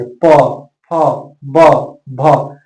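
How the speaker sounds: प, फ, ब, भ said apart, lips pressed together; letter-by-letter demo. Shown as a demonstration. Teacher sounds out प, फ, ब, भ to show both lips closing. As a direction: sound out प, फ, ब, भ with pauses. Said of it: "प्रयोग करेंगे".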